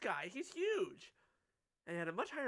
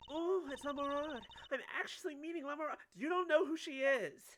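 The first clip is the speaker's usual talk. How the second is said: high, gushing fan voice; excited fan character; 10 semitones higher, 5 dB louder than usual. Acted. Fan finally meeting the singer, high and excited. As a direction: squeal with thrill at meeting an idol.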